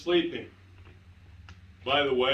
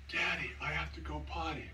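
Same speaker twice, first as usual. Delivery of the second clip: put-on hushed, much softer little-kid voice; child's whisper; 2 semitones higher, 8 dB quieter, faster than usual. Four-year-old son to sleeping dad at morning, imitated whisper. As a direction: imitate a small boy whispering in your ear. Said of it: "whispers in my ear".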